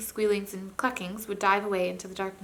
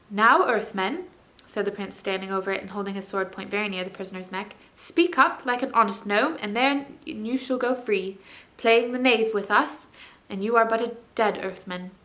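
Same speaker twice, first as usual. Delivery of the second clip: threatening prince; 3 dB louder than usual. Acted. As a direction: lay down the terms like a hard judge.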